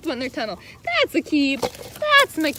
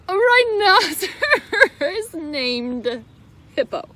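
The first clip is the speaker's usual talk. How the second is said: slowed, laughing through the line; can't keep it together reading it; laughing reader; 2 semitones higher, slower than usual. Real, not acted. Reading to the kids, breaking into laughter.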